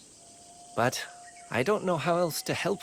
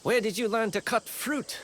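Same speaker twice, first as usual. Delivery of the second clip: imitating villagers' teasing; 7 semitones higher than usual. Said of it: "They have an odd way of showing it".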